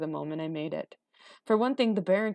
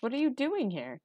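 put-on high-pitched, puzzled boy; bewildered high query; startled question; 8 semitones higher than usual. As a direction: ask it in alarm, pitched up.

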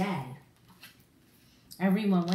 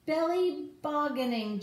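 higher, gleeful shout; mock shout; 7 semitones higher than usual. Jake sliding after Everest, gleeful mock shout. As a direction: whoop it out while sliding. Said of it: "Jake shouted".

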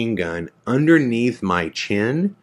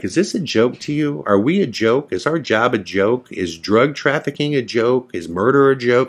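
higher-pitched indignant grilling, retold; laying into someone; 4 semitones higher than usual. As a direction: imitate an officer piling on accusing questions. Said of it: "they are laying into me".

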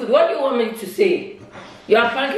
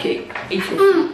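higher, laughing through the words; relieved laugh as she tells him to eat; 12 semitones higher than usual. Real, not acted. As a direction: give in with a laugh. Laughing after prank revealed.

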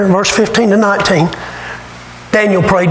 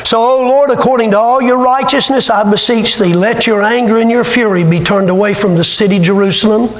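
scripture reading. Acted. Reads Daniel's prayer aloud.

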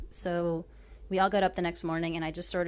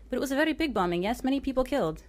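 put-on higher and insistent in a light Arabic accent; 7 semitones higher, faster than usual. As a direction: press the point in an Arabic accent. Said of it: "I butcher Arabic accents".

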